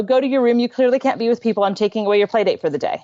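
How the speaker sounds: mock stern orders, fast at the end; scolding parent. Mom imitating her own instinctive scolding, mock stern. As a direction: rattle off the punishment like a cross parent. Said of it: "or to say".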